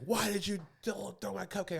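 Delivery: high-pitched wail of protest; whiny mock outrage; imitated drunken meltdown. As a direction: mimic her outraged complaint. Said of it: "she lost her shit".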